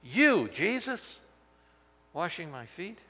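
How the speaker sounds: slow, high-pitched disbelief; flabbergasted. Acted. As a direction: draw out "You" in astonishment. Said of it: "flabbergasted by this".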